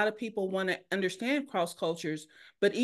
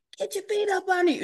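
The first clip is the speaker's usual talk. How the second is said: acted, very high-pitched holler; 11 semitones higher, 4 dB louder than usual. Retelling a football mom in the stands: imitating a mother yelling. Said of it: "She was still yelling at the games".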